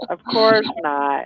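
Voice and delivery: slow low deadpan denial. Real, not acted. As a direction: say it dry and flat. Repeats sarcastic denial.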